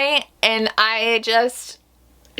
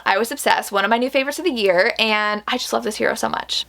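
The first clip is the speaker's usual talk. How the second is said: ordinary delivery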